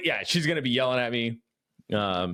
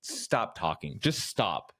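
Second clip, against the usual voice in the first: fed-up retort; 6 semitones lower, 5 dB quieter, slower than usual. Retold or imitated. Retold fed-up wife cutting him off.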